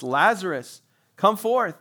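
calling Lazarus loud and high; loud cry. A narrator's reading. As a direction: call him out of the tomb with full voice. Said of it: "he cried with a loud voice".

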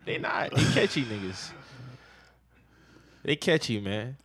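loud, high heated arguing; won't let the argument go; heated yelling. Real, not acted.

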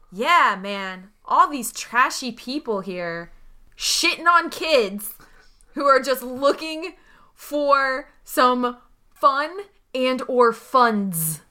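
slow, drawn-out disgusted complaint; pointed, drawling gripe about trashy people; grumbling aloud. Acted. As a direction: grumble slowly for everyone to overhear, leaning on each insult. Voices Sal's loud grumble for passersby.

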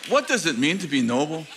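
the movie line in playful Scottish; mock Scottish accent. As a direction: jokingly slip back into Scottish. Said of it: "No, I mean sincerely".

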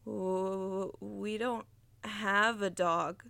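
slow, halting, scared stammer; stammering in fear. Acted. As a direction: stumble over the words, frightened. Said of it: "stammered Josh".

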